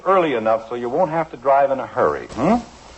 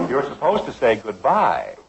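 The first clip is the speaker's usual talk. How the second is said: laughing. Real, not acted. Father corrects Kathy, amused.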